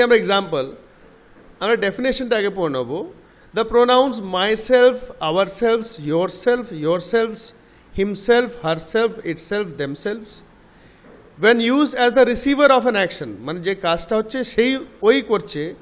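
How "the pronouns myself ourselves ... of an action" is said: very slow, word by word, reading a definition out; slow classroom dictation. Shown as a demonstration. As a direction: read it so students can follow. Reads definition aloud to class.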